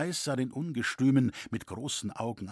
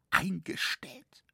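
slow, whispered disbelief turning to anguish; aghast, barely getting it out; pained cry; 6 semitones higher, slower than usual. A narrator's reading. Roritzer hearing the cathedral work is halted, pained disbelief. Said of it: "rief Roritzer schmerzlich".

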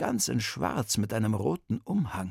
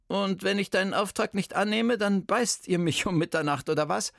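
a lightly voiced indignant old lady, higher; Bertha's stern voice; 7 semitones higher than usual. Old detective scolds the kidnapping boy, indignant.

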